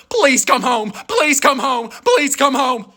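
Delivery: begging. Retold or imitated. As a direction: beg her to come home. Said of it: "I'm calling her sister".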